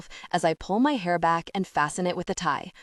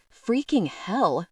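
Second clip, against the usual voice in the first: gasp; 3 semitones higher, much slower than usual. Acted. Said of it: "Beau gasps".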